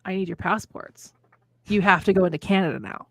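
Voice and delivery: deadpan officer. Retold or imitated. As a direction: say it dead serious, like a border officer. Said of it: "looks me dead in the face".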